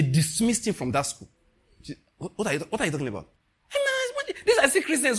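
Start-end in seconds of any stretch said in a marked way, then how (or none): 3.7-5.2 laughing through the words. Real, not acted. Pastor laughing as he recalls hunting witches, laughing. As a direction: laugh it out in disbelief.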